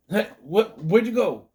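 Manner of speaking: high, loud alarmed shout; dad shouts for his vanished daughter; panicked call. Retold or imitated. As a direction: shout after the runaway child. Dad panics when daughter runs.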